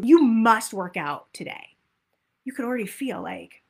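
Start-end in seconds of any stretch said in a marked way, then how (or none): 0.0-1.8 louder, bossy order; stern command. Shown as a demonstration. Coach voicing a forceful workout demand, stern. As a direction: bark the order like a drill instructor. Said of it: "If I say to you".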